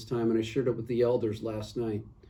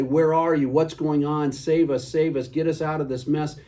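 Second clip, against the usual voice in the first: louder, higher pleading cry; screaming to God; 4 semitones higher, 4 dB louder than usual. Retold or imitated. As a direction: call out to God, begging for rescue. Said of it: "we sit there and we scream".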